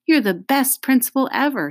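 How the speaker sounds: high-pitched cheer; shouted. A narrator's reading. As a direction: call out praise at a high pitch. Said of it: "somebody shouted".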